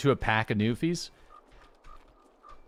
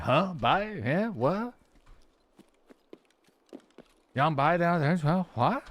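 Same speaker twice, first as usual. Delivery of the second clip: put-on high, questioning Newfoundland accent; 5 semitones higher, slower than usual. Streamer imitating a confused Newfoundlander in a thick Newfoundland accent. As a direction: play a puzzled Newfie in a thick Newfoundland accent. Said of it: "the Newfies take it to a whole extra degree".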